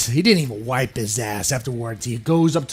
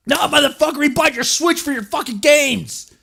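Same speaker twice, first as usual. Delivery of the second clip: mock angry fan; 12 semitones higher, 3 dB louder than usual. Fan shouting back.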